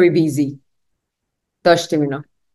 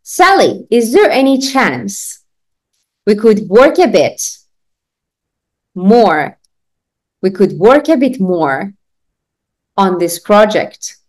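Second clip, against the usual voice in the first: slow chunks with pauses; teacher chunking for students; slow phrase-by-phrase; much slower than usual. Shown as a demonstration. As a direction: break it up for repetition. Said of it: "بگو بعد از من".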